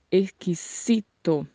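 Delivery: "exquisito" with a faded X and an S sound; Spanish pronunciation. Shown as a demonstration. Teacher sums up the Spanish word, "exquisito" with unvoiced S. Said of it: "a palavra em espanhol é".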